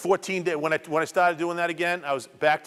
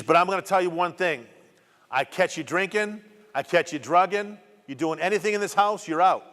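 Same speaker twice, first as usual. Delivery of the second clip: stern ultimatum; 4 semitones higher than usual. Retold or imitated. Wife warning her husband he's out if he relapses, stern and raised. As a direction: lay down the law, no room for argument.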